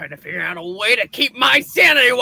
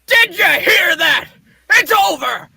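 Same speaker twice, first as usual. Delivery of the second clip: shouting; 5 semitones higher than usual. Acted. Excited editor shouts news.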